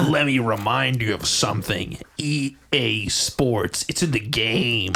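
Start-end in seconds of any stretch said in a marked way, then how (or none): 2.2-4.9 EA Sports announcer. Acted. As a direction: intone the slogan slowly. EA announcer slogan.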